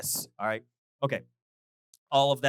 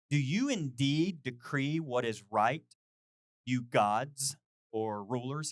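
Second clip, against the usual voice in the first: scripture reading; slower than usual. Acted. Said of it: "The writer opens with two questions".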